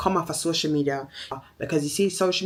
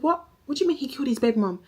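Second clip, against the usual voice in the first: shocked disbelief; 7 semitones higher, faster than usual. Retold or imitated. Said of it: "I was so shocked".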